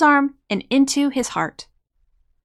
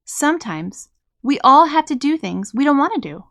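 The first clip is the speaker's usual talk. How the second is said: gently; 3 semitones higher, 3 dB louder than usual. Acted. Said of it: "she told him gently".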